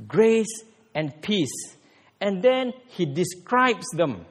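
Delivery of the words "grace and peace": slow solemn greeting. Retold or imitated. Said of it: "Paul hijacks a Hellenistic greeting".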